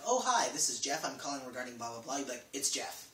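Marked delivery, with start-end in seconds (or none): 0.0-2.2 chatty, eager phone greeting; hammed-up nervous caller explaining himself; overly polite caller. Shown as a demonstration. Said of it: "don't make it like". 2.5-3.1 clipped, no-nonsense name drop; short, confident caller giving just a first name; terse and curt. Shown as a demonstration. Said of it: "That's it".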